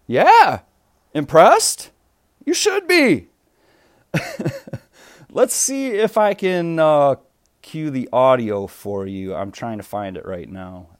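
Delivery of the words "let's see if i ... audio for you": audio cutting in and out; broken up connection; choppy audio. Real, not acted. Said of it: "that's why I sound choppy".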